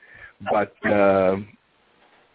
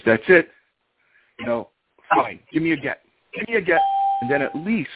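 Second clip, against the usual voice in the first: high retold exasperation; indignant ultimatum, pitched up; enraged; 5 semitones higher than usual. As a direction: act out a fed-up wife's demand. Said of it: "she is enraged".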